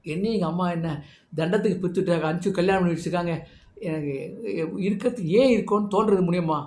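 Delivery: soft, downcast imitation of crying; mildly weepy, overwhelmed listing of chores; tearful complaint. Overwhelmed Sita pours out her chores to Muniyamma, subdued mock-tearful moan. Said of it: "அழறா".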